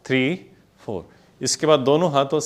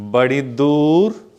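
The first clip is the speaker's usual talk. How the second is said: slow lyric recital; much slower than usual. Shown as a demonstration. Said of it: "नए बोल हैं".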